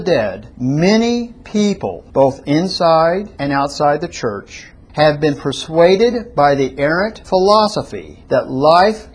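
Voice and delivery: measured read-aloud with weighty key words; slow, careful reading. Real, not acted. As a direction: read out deliberately for followers. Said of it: "I'm going to read it slowly".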